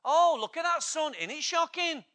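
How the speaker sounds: high, loud mock whinge about the sun; mock complainer. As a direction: parody a moaner, half-hearted. Mocking Australians complaining about sun.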